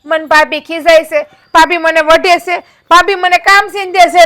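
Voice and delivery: a hint of slow mock whine; mildly mocking a tattletale; mock whining. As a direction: parody her telling tales. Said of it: "હંધાઈને કેવા જાય".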